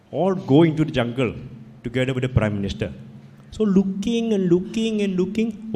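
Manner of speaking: put-on a light Indian accent telling a fable; lightly voiced Indian storyteller accent; gentle Indian accent, once upon a time. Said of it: "I can tell in an Indian accent".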